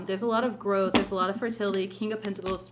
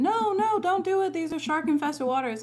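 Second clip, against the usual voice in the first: mock screaming friends; 7 semitones higher than usual. Friends on the yacht mock screaming warning. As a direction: cry out no to stop him. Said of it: "friends start screaming".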